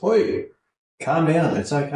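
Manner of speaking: acted-out parental comforting; retold reassurance. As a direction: get attention, then settle a crying child. Retold dad soothing his crying daughter.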